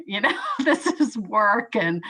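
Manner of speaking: laughing through the words; a short real laugh while speaking. Real, not acted. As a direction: laughs at herself mid-thought. Laughing at own thought.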